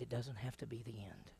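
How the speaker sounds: softly whispered reassurance. Real, not acted. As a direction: lean in and whisper the hope. Preacher's tender closing point.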